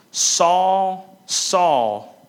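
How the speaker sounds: loud calling cry, the name thrown out twice. Acted. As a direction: call his name out with force. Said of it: "He cries out".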